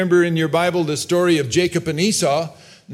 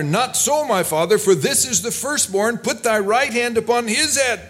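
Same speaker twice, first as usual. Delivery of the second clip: higher-pitched protest to a father; urgent objection; 6 semitones higher than usual. Acted. Joseph correcting his father's hands on the firstborn, urgent objection. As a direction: object insistently, pitch lifted.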